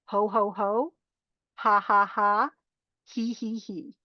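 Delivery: calm ho ho, ha ha, he he spoken in turn; name each laugh sound, fading on the he; laughter sounds. Shown as a demonstration. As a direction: demo of laughter syllables. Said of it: "rely on three laughter sounds".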